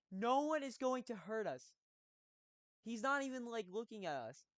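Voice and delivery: high, loud retold yell at the woman; dad yelling. Dad yells at the panicking woman in the checkout line, loud and high. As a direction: belt it out to shut down her panic. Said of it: "He literally yelled that".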